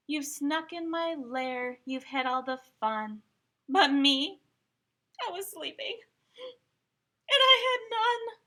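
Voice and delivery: high, loud, whining complaint; whiny upset bear. Acted. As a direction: whine like a left-out bear. Bear's complaint.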